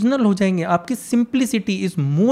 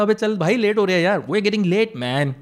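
anglicised friend. Retold or imitated. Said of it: "जब वो हिंदी बोलता था".

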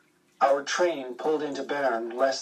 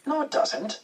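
much higher, quick retort of the Irishman; joke Irishman; 12 semitones higher than usual. A narrator's reading. Punchline Irishman answering the Englishman, pitched much higher. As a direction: snap back as the joke's Irishman. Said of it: "said the Irishman".

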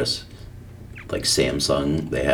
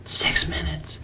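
high, breathy disbelief; incredulous; 13 semitones higher, 4 dB quieter, slower than usual. Real, not acted. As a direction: gasp it in disbelief. Incredulous repeat.

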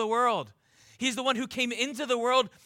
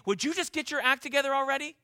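scowling impatience; 4 semitones higher, faster than usual. Retold or imitated. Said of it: "scowling at you".

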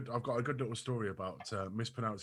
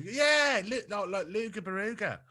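slow, higher "Luga Baruga"; lightly voiced Australian friend; 9 semitones higher, slower than usual. Retelling the Australian mate's call, lightly mocked Aussie voice. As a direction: drawl it out like the Aussie mate. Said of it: "And she's gone".

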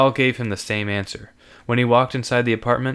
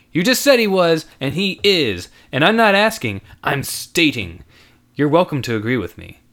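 put-on insistent young man; 5 semitones higher, 5 dB louder than usual. Andrew asserting.

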